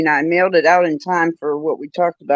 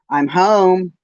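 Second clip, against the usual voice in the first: lightly mimicking husband calling I'm home; a hint of the husband's voice, a touch higher and louder; husband's voice, parrot-style; 4 semitones higher, 5 dB louder than usual. Bird mimicking husband's voice: I'm home, lightly voiced. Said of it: "in my husband's voice".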